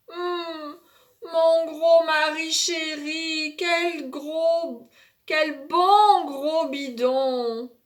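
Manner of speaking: sleepy mother. Acted. Mother sleep-talking to husband.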